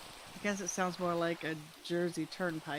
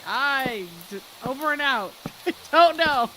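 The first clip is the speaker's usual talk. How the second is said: walkie-talkie speak; 5 semitones higher, 9 dB louder than usual. Pretend. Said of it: "Walkie-talkie speak".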